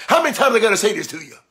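quick, exasperated comic delivery; Bernie Mac. Acted. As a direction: rattle it off like a fed-up comedian. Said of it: "Feel like Bernie Mac".

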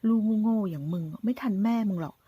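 taunting villain. Acted. Gunman taunting the son about his mother, sneering menace. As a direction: lean on every insult like a cornered thug.

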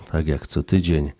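usual speaking voice

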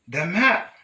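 high, loud storybook exclamation; shouted. A narrator's reading. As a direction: shout it out at a sudden discovery. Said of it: "they shouted".

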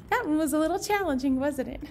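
fast laughing remark. Real, not acted. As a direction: laugh it off lightly. Laughs after hard song.

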